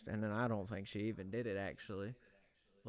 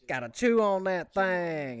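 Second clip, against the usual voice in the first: slow, higher put-on voice; mock slow voice; 8 semitones higher, 9 dB louder, slower than usual. Retelling a friend's line in a silly slow voice. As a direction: drag it out in a silly voice. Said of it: "And she was like".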